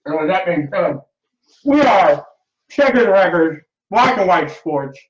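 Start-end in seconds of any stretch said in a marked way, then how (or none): 1.6-5.0 talking through burning hot mouth; mouth on fire from spice. Real, not acted. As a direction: push words out past the heat. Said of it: "My mouth is on fire".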